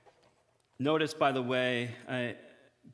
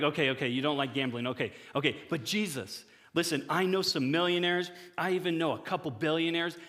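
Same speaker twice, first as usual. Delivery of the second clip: mock bargaining; 4 semitones higher than usual. Retold bargaining prayer to Jesus.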